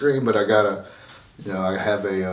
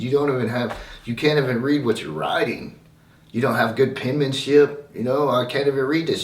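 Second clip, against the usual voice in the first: higher, louder mock scolding teacher; a touch of a harsh teacher berating a kid; mimicking teacher yelling; 6 semitones higher, 4 dB louder than usual. Mean teacher scolding the poor kid over penmanship, mock yelled. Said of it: "she just starts yelling at me".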